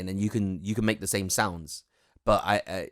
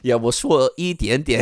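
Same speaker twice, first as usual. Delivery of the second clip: mock polite Mandarin; 4 semitones higher, 7 dB louder than usual. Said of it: "You be like".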